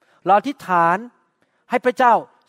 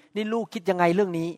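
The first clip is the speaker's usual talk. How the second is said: gentle question; 5 dB quieter than usual. Shown as a demonstration. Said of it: "พูดกับเขาดีๆ".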